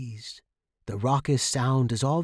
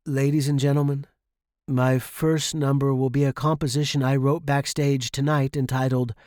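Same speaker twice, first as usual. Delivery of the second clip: stage announcement. A narrator's reading. Announces his number on stage.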